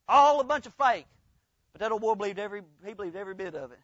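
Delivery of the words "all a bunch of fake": louder, punching all; repeated louder for emphasis. Shown as a demonstration. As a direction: hammer home the repeat. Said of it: "It was all a bunch of fake".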